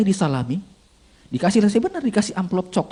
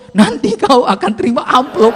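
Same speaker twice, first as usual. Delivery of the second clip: loud, slow, raised voice of temptation; intrusive inner voice; 6 semitones higher, 7 dB louder than usual. Acted. Inner voice interrupting as he stands to preach, loud and drawn out. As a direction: stretch it out high and loud. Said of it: "sampai berdiri pun begini".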